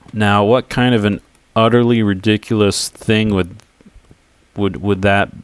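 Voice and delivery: stumbling tongue-tied over the words; words tripping on a tongue-tied tongue. Real, not acted. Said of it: "My tongue is not working correctly right now".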